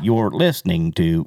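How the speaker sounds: flat imitating robot announcer; mock robotic announcer voice. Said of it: "It's like a robotic voice".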